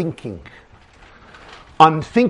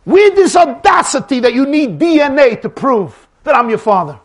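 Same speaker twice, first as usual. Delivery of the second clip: slightly raised, emphatic fatherly outrage; indignant father. Acted. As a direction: list the sacrifices with mounting indignation. Father protests son's demand for proof.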